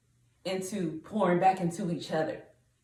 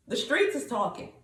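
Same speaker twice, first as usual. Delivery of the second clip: raised, drawled-out odd accent; unidentifiable accent; 4 semitones higher than usual. Real, not acted. Speaker tells the ladies word is out, in an unplaceable accent. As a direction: slip into an accent nobody can place. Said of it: "I don't know what accent that was".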